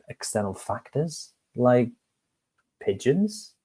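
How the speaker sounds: puzzled question. Acted. Baker confused by the pigeon's lesson. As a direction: sound honestly baffled.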